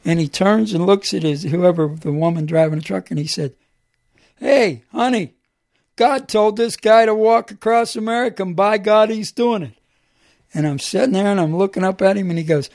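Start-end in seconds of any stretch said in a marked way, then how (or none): 4.4-9.7 louder and higher imitating drunk man; loud drunk call. Drunk man calling to the woman in the truck, loud.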